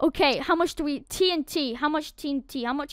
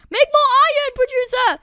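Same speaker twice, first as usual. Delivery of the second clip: high, loud demanding call; yelling; 10 semitones higher, 9 dB louder than usual. Real, not acted. Gamer yelling at the iron producer, demanding. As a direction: bark an order at it.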